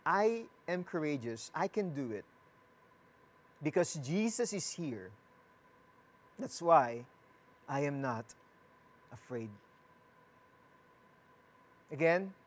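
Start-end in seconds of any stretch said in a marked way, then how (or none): 0.1-9.5 quiet affirmation. Shown as a demonstration. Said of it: "Can you say that again?".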